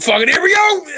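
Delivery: high, gleeful retold cheer; mock eager. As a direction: cheer it like a greedy kid. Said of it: "I was like".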